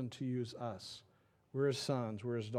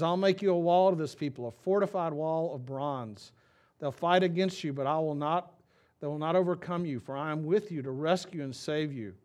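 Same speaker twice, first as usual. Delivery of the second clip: louder, declaiming promise; scripture reading; 4 dB louder than usual. Acted. Pastor reading God's promise to Jeremiah, loud and proclaiming. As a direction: proclaim it like a vow. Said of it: "It says".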